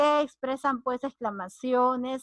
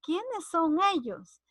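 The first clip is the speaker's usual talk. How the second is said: "¿Quiénes son ellos?" as a slow question, pitched higher; tono interrogativo; 4 semitones higher, slower than usual. Shown as a demonstration. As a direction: ask "¿Quiénes son ellos?" slowly, without shouting. ("¿Quiénes son ellos?" como pregunta lenta y aguda)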